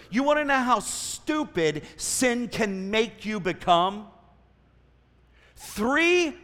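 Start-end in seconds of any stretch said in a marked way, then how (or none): 0.1-4.1 slow, leaning hard on "stupid"; stronger restatement. Real, not acted. Preacher restating his point to the congregation more bluntly, stronger and slower. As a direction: put slow, heavy weight on "stupid". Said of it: "I'll just say it a bit stronger".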